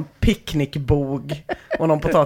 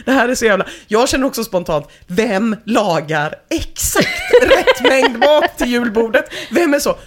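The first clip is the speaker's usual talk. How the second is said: indignant rant about cooking the exact amount of food; rising rage; 4 semitones higher than usual. Real, not acted. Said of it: "all vrede jag någonsin har känt".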